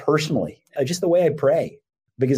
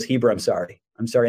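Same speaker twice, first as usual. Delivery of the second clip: lower-pitched, understated apology; retold subdued apology; 4 semitones lower than usual. Friend apologises to Heber in passing, subdued.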